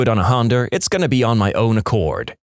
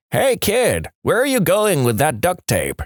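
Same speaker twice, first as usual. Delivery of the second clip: yelling out; 7 semitones higher than usual. Acted. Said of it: "Old guy yells out".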